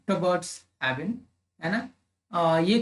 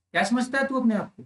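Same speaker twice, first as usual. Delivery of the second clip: lightly acted rude challenge, quick and higher; mock an arrogant confrontation in a quick, raised pitch; egoistic, rude; 5 semitones higher, faster than usual. Teacher acting out someone insolent to explain tone, rude and egoistic. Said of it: "egoistic tone है और सामने वाला बदतमीजी के साथ".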